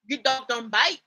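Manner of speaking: lightly faked Irish accent; Angel's Irish accent. Shown as a demonstration. Reading an Angel line aloud, badly faked Irish accent. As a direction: try a rough, mock Irish accent. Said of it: "let me go find an an-, a angel line".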